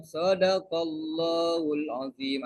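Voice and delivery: slow, solemn Quran-recital tone; mocking Arab reply. Teacher imitates an Arab driver teasing formal speech. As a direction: intone it like closing a Quran reading. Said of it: "Nanti dia bilang kayak gini jawabnya".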